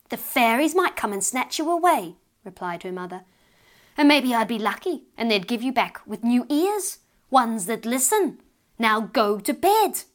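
put-on scare the child into bed; lightly voiced stern mother. Mother warns, orders bed.

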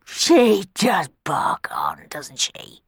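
whispered grumble; grumbled under breath. Acted. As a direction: grumble it so she can't hear. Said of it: "grumbled Black Bob under his breath".

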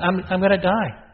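hammed-up student alarm, half joking; mock panic. A student imagining failing the class, mock panic.

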